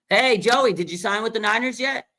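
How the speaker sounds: high, doting mom voice, pleading sweetly; Cheryl, Joey's mom. Retold or imitated. Mom calling son Joey to sign, high doting plea. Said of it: "And then she".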